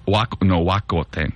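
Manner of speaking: WACO said "wah-ko", with an open ah; alternative pronunciation. Shown as a demonstration. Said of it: "Is it Waco tanks?".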